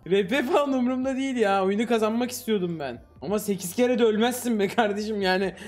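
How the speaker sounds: normal talking voice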